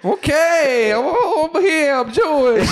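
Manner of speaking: high, hammed-up Jewish accent; mock Jewish accent. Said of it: "If you wanna do your real accent".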